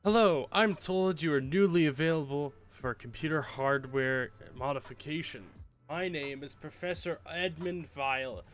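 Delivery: theatrical evil mastermind voice; panto villain. Acted. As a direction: ham it up like a cartoon villain. Reads villain's email in voice.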